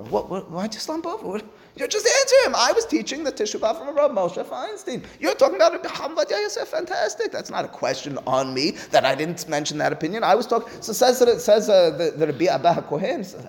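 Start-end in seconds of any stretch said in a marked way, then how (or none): 0.0-10.7 high, laughing exasperation; exasperated teacher retort. Acted. Teacher answering a student, laughing exasperation. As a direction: brush off the student's question in disbelief.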